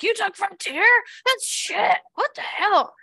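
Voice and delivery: high loud mocking disbelief; incredulous friends. Friends mocking their cheap airline, high incredulous. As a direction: scoff like snobby friends. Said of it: "everybody's like".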